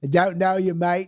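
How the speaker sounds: light Aussie bouncer line; quoting his Australian take back at him; a touch of Aussie accent, teasing; mock Australian. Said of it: "you just did Australia".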